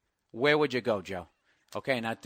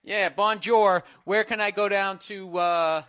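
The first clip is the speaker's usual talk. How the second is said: loud, higher clueless tourist, "bonjour" drawn out; extra ignorant American; 6 semitones higher, 6 dB louder, slower than usual. Acted. Ignorant tourist asking the French for directions, loud and clueless. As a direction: play the oblivious American tourist loudly. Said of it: "try to be, like, extra ignorant".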